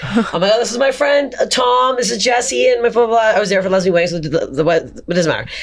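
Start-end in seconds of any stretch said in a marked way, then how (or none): 0.5-3.4 retold introduction.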